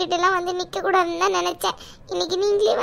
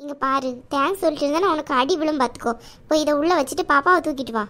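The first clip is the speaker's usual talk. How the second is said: a slightly lower, motherly aunt who scolds out of love; caring aunt voice; 4 semitones lower than usual. Acted. Aunt scolds niece Saraswathi for hiding debts, lower motherly voice. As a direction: play the protective chithi, chiding but kind.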